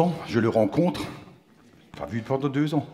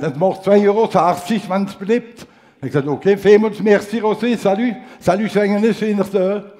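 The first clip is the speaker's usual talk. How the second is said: chummy shop talk; 6 semitones higher, 4 dB louder than usual. Retold or imitated. Pharmacist farewell dialogue.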